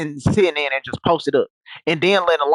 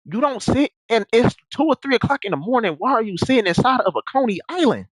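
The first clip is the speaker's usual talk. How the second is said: exasperated scolding; 7 semitones higher than usual. Retold or imitated. Scolding granddad in retold scene.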